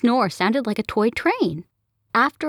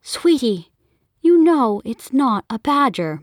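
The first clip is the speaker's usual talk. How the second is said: mom chiding dad; 5 semitones higher, 4 dB louder than usual. Acted. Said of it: "Mom said to him".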